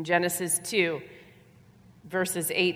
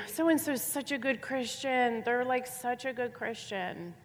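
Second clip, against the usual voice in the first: 1 mock student voice; 5 semitones higher, 5 dB quieter than usual. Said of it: "'cause they would always be".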